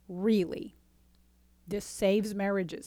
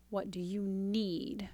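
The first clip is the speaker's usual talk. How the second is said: soft whisper; 5 dB quieter, slower than usual. Shown as a demonstration. Coach whispers the calming question to a partner, softly. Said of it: "stop that pattern and go".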